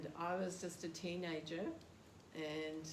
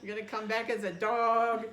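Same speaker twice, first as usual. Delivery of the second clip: put-on loud, higher preaching in a heavy Yugoslavian accent; 4 semitones higher, 11 dB louder than usual. Yugoslavian devotee preaching at a cornered teenager, loud Yugoslavian accent. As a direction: bellow the list in a Yugoslavian accent. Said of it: "he had such a heavy accent".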